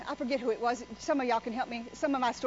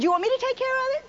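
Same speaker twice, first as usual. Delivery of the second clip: mock menacing offer; 8 semitones higher, faster than usual. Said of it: "I said".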